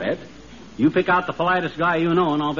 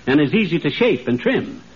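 hammy stage actor. Acted. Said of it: "the way Sir Walter Raleigh talks".

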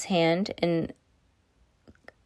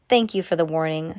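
sarcastic. Acted. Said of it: "with more than a hint of whatever Max Ernest would have recognized as sarcasm".

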